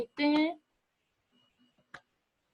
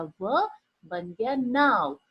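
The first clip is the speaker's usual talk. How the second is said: slowly sounded out; much slower than usual. Shown as a demonstration. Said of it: "न पे आ की आवाज आ रही है".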